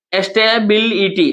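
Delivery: "इनस्टेबिलिटी" slowly, in five parts; five syllables. Shown as a demonstration. Teacher counting five syllables, slow and separated. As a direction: draw apart the pieces of "इनस्टेबिलिटी". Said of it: "इनस्टेबिलिटी में पांच".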